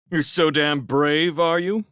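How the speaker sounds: angry challenge. A narrator's reading. Railsmith challenges Felix's bravery, angrily demanding. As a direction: throw it at him as an accusation. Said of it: "demanded Railsmith angrily".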